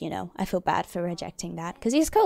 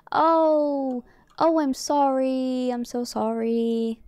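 sympathetic sorry; 3 semitones higher, slower than usual. Real, not acted. Consoling a grieving character.

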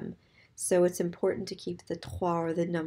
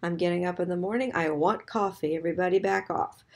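grumpy; faster than usual. Pretend. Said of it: "This is your grumpy self".

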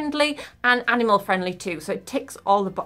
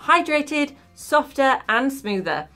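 speaking with face mask on; through a sheet face mask. Real, not acted. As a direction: lips framed by sheet mask. Seen 2: Wet sheet mask covers face, mouth opening clear, throughout all frames.

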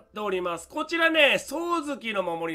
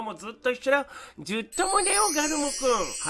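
sweet eerily obsessive voice; 5 semitones higher, faster than usual. Acted. Cooing to his new pet.

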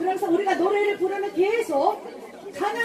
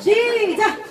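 loud, higher coach shout; barking gym coach; 5 semitones higher, 5 dB louder, much slower than usual. Real, not acted. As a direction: bark the start like a gym coach. Coach counting exercise reps.

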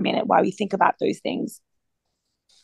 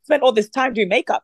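higher-pitched, mildly distressed lament; upset; 5 semitones higher than usual. Retold or imitated. Driving wife lamenting to the Lord, mildly upset. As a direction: re-enact a flustered complaint, pitched up. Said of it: "I was so upset".

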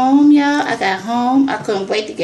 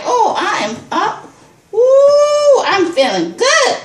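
high, louder giddy laughing ooh; giddy joy; 11 semitones higher, 5 dB louder, slower than usual. Retold or imitated. After the selfie, high giddy delight. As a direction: bubble over with delight. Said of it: "I'm like".

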